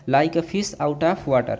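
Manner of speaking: each word drawn out slowly; slow classroom dictation; slow dictation pace. Shown as a demonstration. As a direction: let the class hear every word. Teacher repeating the idiom slowly.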